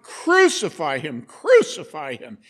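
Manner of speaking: loud chanting mob cry; shouting crowd. Retold or imitated. The crowd demanding from Pilate, a loud shouted chant. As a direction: bellow it like an angry mob. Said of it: "they shouted".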